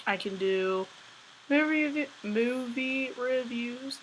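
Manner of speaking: talking through a stiff drying face mask. Real, not acted. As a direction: lips barely moving under a tight face mask. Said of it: "It's getting really hard to talk with this mask".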